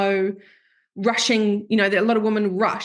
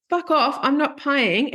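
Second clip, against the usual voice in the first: higher mock angry snap at the girlfriend; hammed-up irritated refusal; boyfriend snapping; 5 semitones higher, slower than usual. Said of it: "And he's like".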